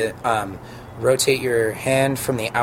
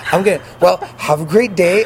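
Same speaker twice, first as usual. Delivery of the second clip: cheery brush-off; 7 semitones higher, 7 dB louder than usual. Retold or imitated. Hurrying out, brushing it off.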